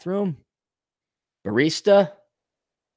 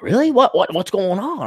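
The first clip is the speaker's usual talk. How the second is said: mock alarm; 8 semitones higher than usual. Friend reacting in alarm.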